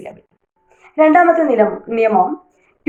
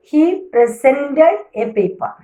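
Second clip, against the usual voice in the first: slow example, presented stressed on SENT; verb stress, second syllable; 4 semitones higher, much slower than usual. Shown as a demonstration. Teacher gives a verb sentence, presented slowly stressed on SENT. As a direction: lean on the middle syllable of presented. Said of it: "സെന്റിൻ്റെ അടുത്താണ്".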